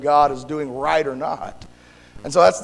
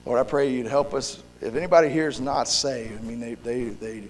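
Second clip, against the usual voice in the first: softer, unhurried praying voice; prayer; 3 semitones lower, 7 dB quieter than usual. Real, not acted. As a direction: pray earnestly, easing down from preaching. Leads a prayer.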